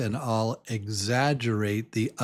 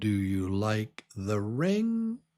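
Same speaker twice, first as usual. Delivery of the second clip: pitch swinging steeply up at the end on ring. Demonstrating how he asks a question: rising at the end. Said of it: "Goes really up at the end".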